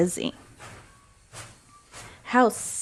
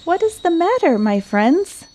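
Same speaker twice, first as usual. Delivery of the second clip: kindly asking; 10 semitones higher than usual. A narrator's reading. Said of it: "she asked kindly".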